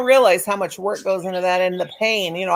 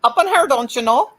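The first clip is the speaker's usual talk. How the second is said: playful mock Minnesota accent; 2 semitones higher than usual. Teasing a friend about accents, mock Minnesota accent. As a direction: lightly put on a Minnesota accent. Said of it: "There you go with your accents".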